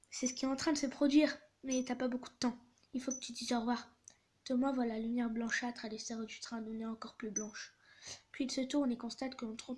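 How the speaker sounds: measured narration with lightly acted dialogue; story read-aloud. A narrator's reading. Conductor breaking fatal news to Thomas, acted story reading. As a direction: tell the tale, lightly voicing each speaker.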